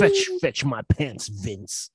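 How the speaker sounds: slow, emphatic wrestler catchphrase; The Rock impression. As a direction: growl the line like a wrestling promo. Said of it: "The Rock to tell Vince McMahon".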